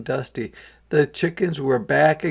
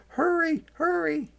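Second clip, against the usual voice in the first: urgent hurry. A narrator's reading. Urging chick from hawk.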